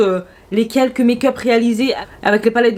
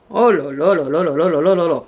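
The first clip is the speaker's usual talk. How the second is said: swooning oh la la; 6 semitones lower than usual. Real, not acted. Swooning over a red palette.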